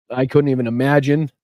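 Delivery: halting, moved by sympathy for a loss; choked up. Real, not acted. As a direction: stop short as the grief gets to you. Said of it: "just got me".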